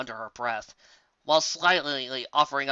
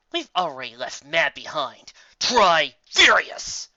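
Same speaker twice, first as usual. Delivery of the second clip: forcibly calm; 6 dB louder, slower than usual. Acted. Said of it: "in a forcibly calm tone".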